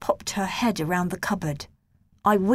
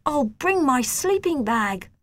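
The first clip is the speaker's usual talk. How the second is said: excited shout; 7 semitones higher, slower than usual. Acted. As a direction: shout it with happiness. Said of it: "I shouted".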